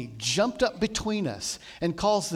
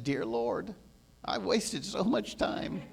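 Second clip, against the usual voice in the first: soft regret; 7 dB quieter, slower than usual. Retold or imitated.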